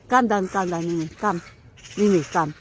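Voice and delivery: loud coaxing call up a tree; calling the cat. Real, not acted.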